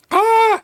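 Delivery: high, loud cry from burning heat; sudden high yelp at the burn; pained yelp. Real, not acted. Streamer reacting to hot sauce, pained high yelp.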